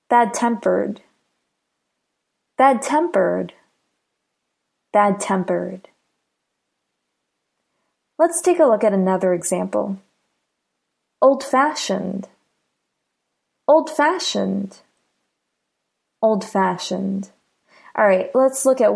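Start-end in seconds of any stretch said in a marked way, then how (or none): 0.1-5.9 "bad-tempered" with stress on the second part, "tempered"; careful model of "bad-tempered", "tempered" emphasized. Shown as a demonstration. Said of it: "the stress is on the second part". 11.2-17.3 put-on "old-fashioned" slowly, stress on "fashioned"; slow model of "old-fashioned", second part stressed. Shown as a demonstration. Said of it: "the stress is on the second part".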